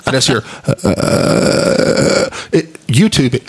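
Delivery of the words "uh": vocal fry. Shown as a demonstration. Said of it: "YouTube vocal fry".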